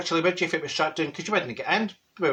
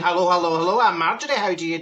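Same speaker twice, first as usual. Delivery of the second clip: cheery greeting; faster than usual. Retold or imitated. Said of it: "I'm out there saying".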